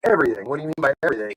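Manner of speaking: retold incredulous reply. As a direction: question it like you misheard. Incredulous at the job scope.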